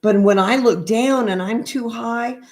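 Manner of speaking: gentle sing-song picture book read; reading to children. Acted. Reads picture book aloud.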